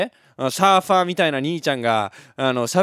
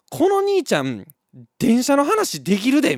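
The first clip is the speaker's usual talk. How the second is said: put-on toddler's excited thought; 10 semitones higher, 6 dB louder than usual.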